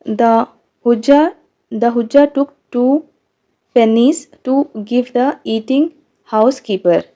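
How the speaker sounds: reading each word slowly for the class; dictating the sentence slowly and clearly; slow textbook reading. Shown as a demonstration. Reads homophone example sentence. (धीरे-धीरे पाठ पढ़कर सुनाना)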